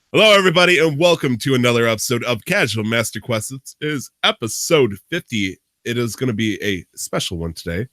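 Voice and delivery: lively podcast announcer with swooping intonation; hyped show opening. Acted. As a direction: welcome the crowd in overdrive mode. Hosts the podcast intro in overdrive.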